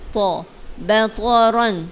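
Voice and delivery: بطرن slow, ط said full and heavy; heavy toa. Shown as a demonstration. Teacher repeats بطرن with heavy ط for pupils. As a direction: give بطرن a thick ط. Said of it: "تو کو موٹا کریں گے".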